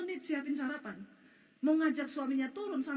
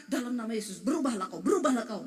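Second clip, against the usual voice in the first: a hammed-up preacher's command, louder; mock preacher laying hands; 4 dB louder than usual. Pastor mocking a laying-on-of-hands prayer, hammed-up and loud. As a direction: playfully mimic a pastor praying over someone. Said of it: "suruh pendeta tumpang tangan".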